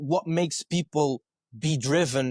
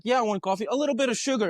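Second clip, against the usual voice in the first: coworker voice; 8 semitones higher, much faster than usual. Retold or imitated. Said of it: "And he's like".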